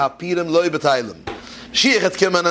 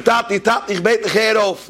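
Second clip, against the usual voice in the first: put-on higher-pitched child begging dad; mild acted plea in a higher register; pleading; 6 semitones higher than usual. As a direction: implore your father to stop, voice raised in pitch. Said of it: "Er bet ihm".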